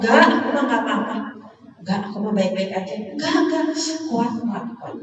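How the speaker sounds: fast, laughing mock reassurance; brave front. Woman telling herself she is fine, laughing. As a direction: brush it off with a laugh. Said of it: "atau lebih sering ngomong".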